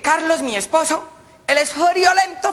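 high, slow, drawn-out lady; high gossiping lady. Acted. Lady tells her friends about Carlos, high slow gossip. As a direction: stretch it out like a gossip.

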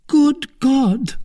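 a high, loud cry of alarm from the procurator's wife; cried out. Acted. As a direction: gasp it out at the price. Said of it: "cried she".

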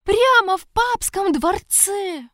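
high, loud, panicked blurt; frantic guard reporting a murder. Acted. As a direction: gasp out the news wild-eyed.

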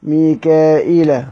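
ميكائيل drawn out slowly as mikaila; slow careful ميكائيل, every syllable held; reading variant. Shown as a demonstration. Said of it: "بالهمزة من غير ياء".

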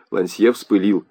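plain reading voice

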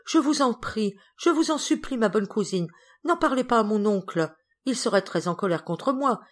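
high, urgent begging; frightened pleading. Acted. Frightened girl begs her cousin not to tell her uncle, anxious plea. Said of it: "Geneviève effrayée".

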